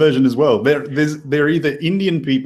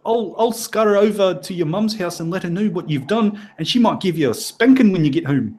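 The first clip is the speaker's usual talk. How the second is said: put-on Kiwi accent; 4 semitones higher than usual. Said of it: "I think I'm losing the accent now".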